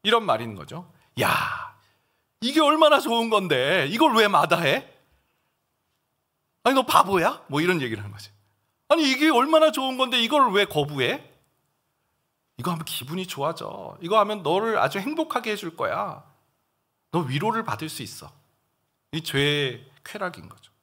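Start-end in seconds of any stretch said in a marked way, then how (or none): 1.2-7.4 coaxing, high and louder, mocking the refusal; tempter's voice. Preacher voicing Satan's taunt to the congregation. 8.9-18.3 tempter's voice. Acted. Preacher acting the devil luring a believer with pleasure.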